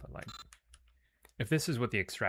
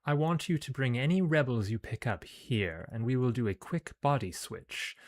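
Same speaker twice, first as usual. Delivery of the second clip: put-on scheming commander with a British accent; 4 dB louder than usual. Commander plots planting agents among rebels, British accent. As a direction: lay out the plan in crisp British English. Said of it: "I gave her a British accent".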